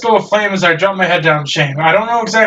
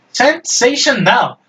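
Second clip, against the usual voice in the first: drawn-out cheerful word; 4 semitones higher, much slower than usual. Acted.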